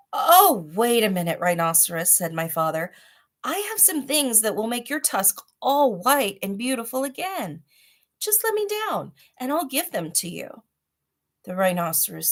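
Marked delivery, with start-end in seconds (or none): 0.1-10.6 much higher, bright pleading voice; eager father. Acted. Father bargaining with the rhinoceros, high eager voice. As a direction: rush to bargain your way free.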